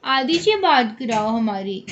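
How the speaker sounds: slow mock-pleading relatives; quoting relatives. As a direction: draw it out like the relatives ask. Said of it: "सब बोलते हैं". (धीमे से रिश्तेदारों की नकल)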